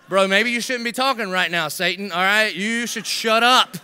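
chuckling through a mock telling-off, slowing on shut up; laughing scold. Real, not acted. Preacher laughing as he tells Peter to shut up.

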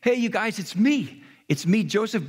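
eager reveal. Retold or imitated. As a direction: lightly voice Joseph bursting to tell. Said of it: "was so tempted to say".

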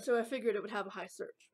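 holding back a burp; words just before a burp. Real, not acted. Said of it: "Excuse me, I'm burping".

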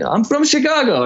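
high-pitched fake Eastern European accent; bad Eastern European accent. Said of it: "this really bad Eastern European accent".

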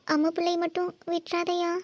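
tearful mother begging for a promise; crying plea. Acted. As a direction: plead in halting, weepy phrases. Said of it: "நீங்க இப்படி அழுகிறது தான்".

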